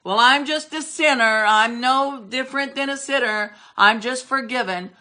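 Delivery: scornful imitation of a meek churchgoer; mocking a weak believer. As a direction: parody a believer who sells himself short. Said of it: "it irritates me to no end to hear somebody say".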